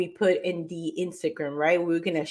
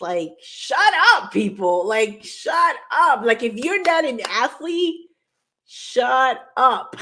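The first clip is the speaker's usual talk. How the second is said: tantrum; 4 semitones higher than usual. Real, not acted. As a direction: scold the online haters. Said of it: "now I got in a tantrum".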